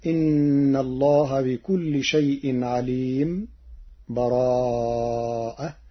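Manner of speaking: a brief stop, no breath, before براءة; brief silent pause. Shown as a demonstration. Teacher shows a short silent pause between surahs. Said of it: "السكت بدون تنفس".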